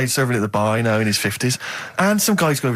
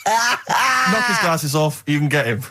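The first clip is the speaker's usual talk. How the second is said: mock coach shout; 2 semitones higher, slower than usual. Imagined instructor urging kids on.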